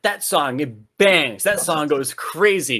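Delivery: excited. Retold or imitated. Ten-year-old self hearing a song.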